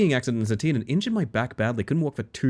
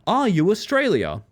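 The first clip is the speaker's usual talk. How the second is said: mock question; 8 semitones higher than usual. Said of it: "people to ask me".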